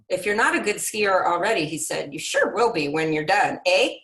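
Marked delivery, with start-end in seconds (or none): 0.1-1.7 put-on a light, half-hearted Canadian accent; hint at a friendly Canadian snowmobiler, barely; weak Canadian accent. Reader voicing the Canadian snowmobiler, faint Canadian accent. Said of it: "my weak attempt at a Canadian accent". 2.1-4.0 put-on a light Canadian accent with a louder, lifted eh; weak Canadian accent. Reader finishing the snowmobiler's joke, mock Canadian accent. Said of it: "my weak attempt at a Canadian accent".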